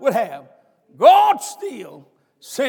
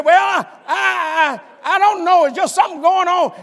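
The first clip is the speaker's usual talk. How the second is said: wife hesitating; 5 semitones higher than usual. Retold or imitated. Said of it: "And she said".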